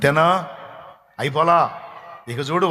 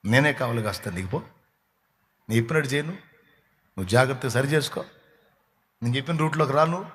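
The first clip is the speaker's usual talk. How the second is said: softer, quicker, almost confiding; quiet God's voice; 3 semitones lower, 5 dB quieter than usual. Acted. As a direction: say it low and fast, as an aside. God's voice, then believer's stubbornness.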